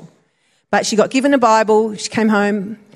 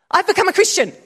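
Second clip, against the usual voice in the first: laughing blurt; 9 semitones higher, faster than usual. Retold or imitated. Friend blurting confession to boss.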